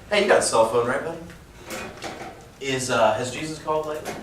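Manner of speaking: corny evangelist line, fast at the end; cheesy pitch. Shown as a demonstration. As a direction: deliver it like a cheesy gimmick. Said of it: "you don't say it like that, all cheesy".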